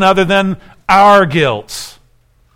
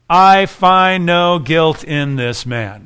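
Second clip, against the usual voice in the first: solemn verdict; much slower than usual. Shown as a demonstration. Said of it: "This is the verdict".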